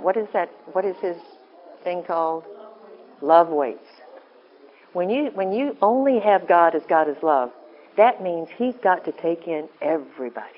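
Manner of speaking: normal talking voice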